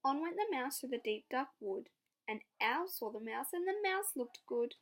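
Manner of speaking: lively read-aloud; picture book storytelling; story narration. Acted. Narration resumes.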